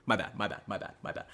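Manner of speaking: unvoiced my bad, fading; whispered apology. Streamer whispering apology to himself. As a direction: whisper it away.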